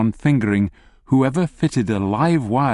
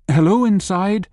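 calling out; 7 semitones higher than usual. Acted. Knocking, calling through the door.

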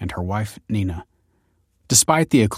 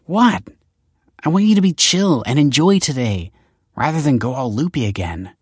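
put-on high, louder, dismissive teen retort; offhand shrug; 6 semitones higher, 4 dB louder than usual. Daughter Olive waves off her father's snapping, in a high, careless teen whine. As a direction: brush off his anger with a careless teen whine. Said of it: "she shrugged".

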